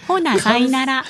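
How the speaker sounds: put-on Kansai accent, pitched a little up; deliberately bogus Kansai sign-off; fake Kansai dialect. Shown as a demonstration. Co-host making Kansai natives shudder, fake Kansai accent. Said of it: "嘘関西弁を喋ると".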